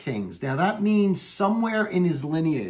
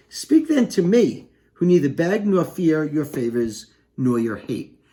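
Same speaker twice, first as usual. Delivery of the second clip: Banquo challenging. Acted. Teacher reads Banquo's challenge to witches.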